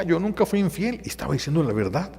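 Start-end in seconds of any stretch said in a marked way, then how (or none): 0.0-1.0 higher, hurt insistence; wife insisting to husband she was faithful; pleading wife. Retold or imitated. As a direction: swear you were faithful. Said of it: "ella lo decía".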